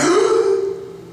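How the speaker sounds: sharp high gasp; sudden intake of breath. Retold or imitated. Storyteller acts out breath held at knifepoint, gasping.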